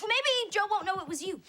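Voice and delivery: high, anxious grasping at hope; flustered reassurance. Acted. Friend hoping Joe won't notice the stain, high flustered voice. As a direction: offer a panicky, high-pitched hope.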